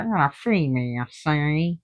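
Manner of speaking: a light hint of an old-time gangster, barely changed from her own voice. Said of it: "he sounds like a gangster".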